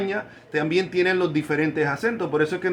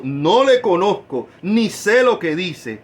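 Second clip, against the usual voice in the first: slow, louder denial; Peter denying; 5 dB louder, slower than usual. Acted. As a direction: deny it firmly and slowly.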